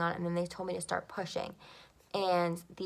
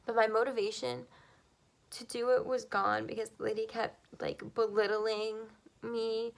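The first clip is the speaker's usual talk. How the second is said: higher, strained voice holding back tears; still emotional; 4 semitones higher than usual. Real, not acted. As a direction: push on through real emotion. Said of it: "I'm so emotional about this".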